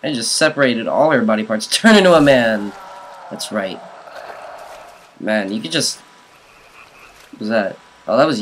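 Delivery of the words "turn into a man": loud taunting yell. Acted. Gamer taunting a zombie mid-fight, loud yell.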